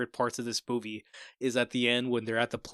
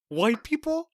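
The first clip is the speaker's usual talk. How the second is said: mock high question; 4 dB louder, slower than usual. Retelling movie lady's line.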